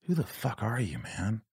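muted, bewildered self-questioning; hushed self-confrontation. Retold or imitated. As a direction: quietly challenge your own reflection. Quietly confronting himself in mirror.

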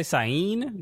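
"Sain" as two syllables, sigh-EEN; chosen pronunciation. Shown as a demonstration. Co-host settling on a name's pronunciation, sigh-EEN. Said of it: "I'm gonna say Sain".

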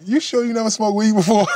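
retold teasing question to grandma about weed; amused disbelief. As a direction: ask it like you can't believe your eyes. Grandma smoking without coughing.

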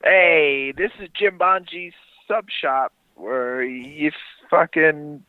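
lightly voiced sandwich guy; character voice. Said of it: "At least do a voice".

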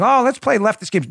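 mock playful. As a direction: toss it off as a silly mock suggestion. Mocking imagined leftist game-playing.

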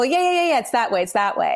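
dismissive agreement. Retold or imitated. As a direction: agree hastily to avoid a fuss. Young athlete hastily agreeing, imagined.

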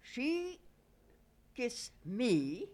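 high, loud broken-English Greek fisherman, pleased with himself; a Greek fisherman boasting, pitch jumping up. Retold or imitated. Old Greek fisherman boasting to the women: high broken-English voice. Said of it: "And he said".

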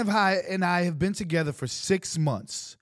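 sweet storybook reading voice; kindergarten teacher voice. Acted. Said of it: "I love how he's putting his extra voice".

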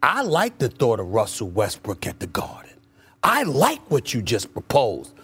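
monotone. Shown as a demonstration. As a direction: demo a dull, lifeless delivery. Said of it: "I just need you to do it more enthusiastically".

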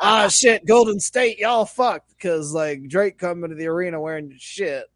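half-joking loud taunt; mock gloating shout. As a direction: jeer at the team, hammed up. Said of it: "So it's like".

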